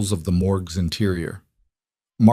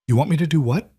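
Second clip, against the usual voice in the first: high, shaken disbelief; shaking voice; 7 semitones higher, faster than usual. A narrator's reading. Mother hears the plan, voice shaking. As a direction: she can't believe what she's being asked. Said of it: "Her voice shook".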